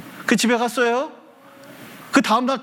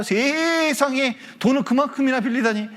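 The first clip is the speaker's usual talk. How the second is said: upset mother, imitated; 4 semitones higher than usual. Mother hearing of her child's borrowing, acted upset. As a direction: act out a mother aghast at the debt. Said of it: "얼마나 속상했는지 몰라요".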